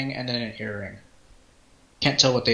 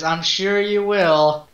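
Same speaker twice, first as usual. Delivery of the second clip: slow, drawn-out, doubtful send-off; knowing doubt; 3 semitones higher, much slower than usual. Acted. Merchant to departing customer he expects to die, slow and doubting. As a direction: draw it out as if they won't make it. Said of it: "His tone of voice suggests that he thinks you're gonna die".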